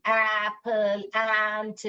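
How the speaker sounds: "एप्पल" slowly, with an open "ए"; teacher modelling the open "ए"; mouth opened wide. Shown as a demonstration. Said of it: "ऐसे खुलेगा आपका मुंह".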